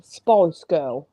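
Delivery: slow, lightly put-on Scottish accent; halting attempt at a Scottish accent. Shown as a demonstration. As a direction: carefully try "Spice Girl" in Scottish. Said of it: "right, in Scottish".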